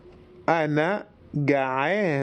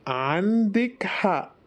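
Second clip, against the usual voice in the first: higher repeat; 5 semitones higher than usual. Shown as a demonstration. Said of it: "teacher repeats the phrase".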